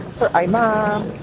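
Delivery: slow, polite self-correction from sir to ma'am; a kind kabayan catching himself mid-word. Retold or imitated. Kabayan correcting himself politely, slowly. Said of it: "Sinasabi nila talaga".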